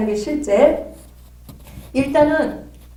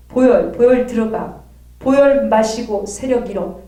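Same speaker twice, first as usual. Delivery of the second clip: commanding prayer chant, louder; self-deliverance prayer; 3 dB louder than usual. Shown as a demonstration. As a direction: command the fire and blood into yourself. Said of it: "이런 식으로, 어, 하거든요".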